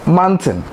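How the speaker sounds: "Mountain" as "man-tin"; mispronounced mountain. Shown as a demonstration. Teacher repeating the error, "Mountain" as "man-tin". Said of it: "The word is not mountain".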